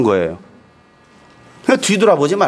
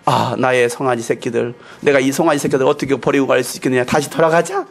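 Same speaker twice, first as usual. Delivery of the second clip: low, lightly voiced sorrowful musing; mother cow's lament; 5 semitones lower than usual. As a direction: mull it over as the torn mother cow. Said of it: "이 소 같은 경우는 생각해 봐". (낮게 탄식하는 어미소처럼)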